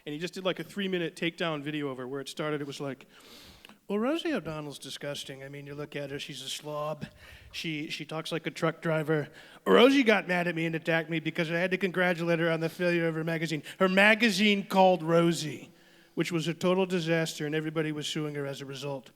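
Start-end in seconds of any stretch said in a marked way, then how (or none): 3.9-13.6 Trump impression. Comic quotes Trump's takedown video of Rosie, imitating. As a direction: sneer it like Trump on TV. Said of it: "how you started impersonating Donald Trump".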